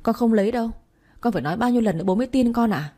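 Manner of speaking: cao giọng, to hơn, nói nhanh vì ấm ức; hét vào mặt bố cho bố tin; hét lên. Acted. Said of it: "tôi hét lên". (cô con gái hét lên với bố, giọng cao và to)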